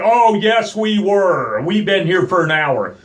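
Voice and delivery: high, loud outraged insistence; indignant insistence. Retold or imitated. Arguing with the park worker, outraged insistence. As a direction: insist hard, voice climbing.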